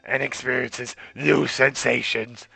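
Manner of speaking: raspy smoker mom voice; smoker's rasp. Acted. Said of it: "I gave him Buzz Smoker's voice".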